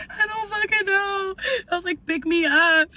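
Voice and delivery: high, teary, breaking voice; crying to her boyfriend, begging him to come get her; retold crying. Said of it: "I was, like, crying".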